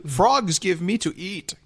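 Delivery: high, drawn-out creature voice; slow, high-pitched little sage; Yoda. Acted. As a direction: put on a high creature voice, slowly. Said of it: "Yoda says so".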